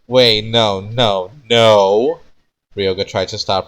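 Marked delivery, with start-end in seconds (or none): 0.1-2.2 frantic shout. Acted. Frantically trying to stop him.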